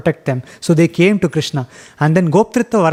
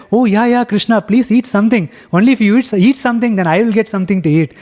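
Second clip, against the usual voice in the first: higher, eager teasing friend; playfully begging on his own behalf; lightly voiced greedy jester friend; cheeky joking friend; 4 semitones higher than usual. Madhumangal joking about getting food.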